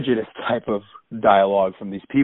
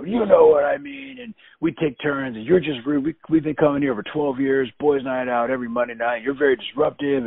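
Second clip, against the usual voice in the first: higher-pitched imitation of complaining diners; mock verbal attack; 4 semitones higher than usual. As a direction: mimic their indignant scolding. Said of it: "verbally attacking me now".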